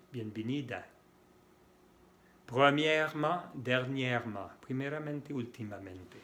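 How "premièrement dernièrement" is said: "Premièrement, dernièrement" with no E before "-ment"; silent middle E. Shown as a demonstration. Teacher modelling silent E, "Premièrement, dernièrement" without middle E. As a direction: join R straight to M in "Premièrement, dernièrement". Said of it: "una E que no se pronuncia".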